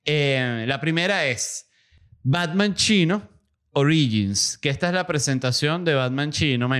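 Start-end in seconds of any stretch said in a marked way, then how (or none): 2.2-4.6 trailer title announcement. Acted. Announces film title trailer-style.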